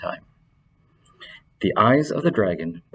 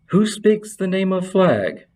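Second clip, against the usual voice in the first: whispering magician; 9 semitones higher, 4 dB louder than usual. A narrator's reading. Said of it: "the magician whispered".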